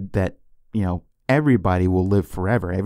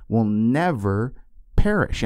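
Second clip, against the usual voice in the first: rising emphatic perish; slower than usual. Shown as a demonstration. Preaching the promise.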